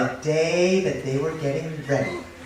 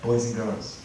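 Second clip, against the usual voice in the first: put-on low, hushed aside to the children; hushed storyteller foreshadowing trouble; ominous warning; 9 semitones lower, 7 dB quieter than usual. A narrator's reading. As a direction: warn young listeners softly, low and foreboding. Teller warns children of trouble.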